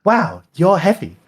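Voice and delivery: high, loud talking broom voice; squeaky animated-object voice. Acted. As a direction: pipe up high as a startled broom.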